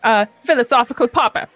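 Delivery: high, mock-philosophical musing; lightly voiced meatloaf creature. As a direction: ponder selfhood like a pompous tiny meat.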